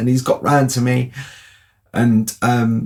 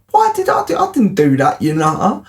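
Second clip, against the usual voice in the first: exasperated; 5 semitones higher than usual. Retold or imitated. Retold denial, exasperated.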